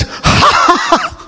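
hammed-up giant laughing; giant's mocking laugh. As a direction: huff out a scornful giant's ha ha. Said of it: "the giant was laughing at him".

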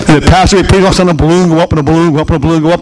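fast, tumbling balloon go up; rattled off fast. Acted. Preacher mocking the balloon service, fast rattled repeats. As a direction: rush the repeats like balloons popping up. Rapid mock of balloons rising.

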